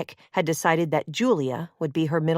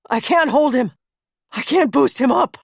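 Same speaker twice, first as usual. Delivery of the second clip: crying out; 5 semitones higher, 4 dB louder than usual. Acted. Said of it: "Jace cried".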